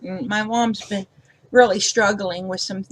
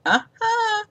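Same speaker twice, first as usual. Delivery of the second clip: high, loud teasing scold to herself; mock self-scolding; 4 semitones higher, 6 dB louder than usual. To herself after messing up a card, mock scolding. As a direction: wag a finger at yourself, half laughing. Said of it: "I'm like".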